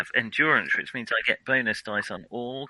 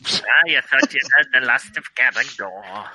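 villain voice; 5 dB louder than usual. Pretend. Villain returns from beyond grave.

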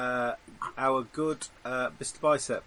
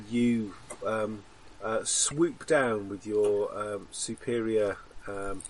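muffled, face turned down; 4 semitones lower, slower than usual. Real, not acted. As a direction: talk muffled, looking down into the mic. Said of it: "you've just gone awfully muffled".

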